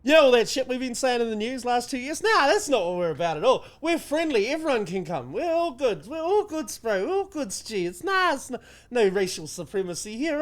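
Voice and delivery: a sneering high mock of smooth reassurance; mocking imitation of politicians pretending all is well. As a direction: parody them as overly friendly and chummy. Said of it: "sitting there going".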